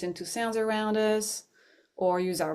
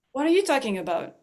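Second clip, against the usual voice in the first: quick, higher defensive snap; defensive retort; 5 semitones higher, faster than usual. Retold or imitated. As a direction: fire it back as if wronged. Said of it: "I got defensive".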